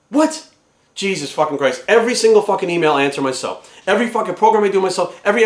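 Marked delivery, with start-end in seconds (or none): 0.1-0.5 high, rising yelp of disbelief; incredulous. Acted. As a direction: react as if you cannot believe it. Reacts to the celebrity's claim.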